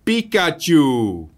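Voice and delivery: high squeaky cry of Pikachu; squeaky Pikachu shout. Shown as a demonstration. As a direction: squeal the name, slow and high. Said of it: "iemand met een piepstemmetje hier doorheen schreeuwt".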